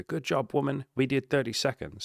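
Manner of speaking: high, cheery congratulation; mock excited praise. To his date after thirty silent seconds, high cheery praise. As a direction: celebrate like you both won.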